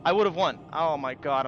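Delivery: frustrated outburst. Real, not acted. Gamer just lost the duel, shouting in real frustration.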